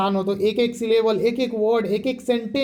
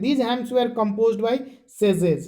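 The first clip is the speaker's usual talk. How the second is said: slow, word-by-word reading of the English line; dictating each word to the class; slow textbook reading; much slower than usual. Shown as a demonstration. Teacher reading the textbook to class, slow and measured.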